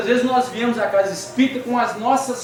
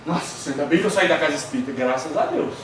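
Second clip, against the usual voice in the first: mock relief; 8 semitones lower, 3 dB quieter than usual. Mock relief after being honked at.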